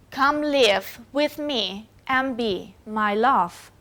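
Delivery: slow, stress on "live", "me", "be" and "love"; iambic stress. Shown as a demonstration. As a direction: recite slowly, beating "live", "me", "be", "love" after light syllables. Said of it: "where the stresses are in live, me, be, love".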